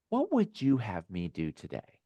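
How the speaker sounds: softly asked, leaning on "you"; stress on YOU. Shown as a demonstration. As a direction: gently put the weight on "you". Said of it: "I emphasize the word you".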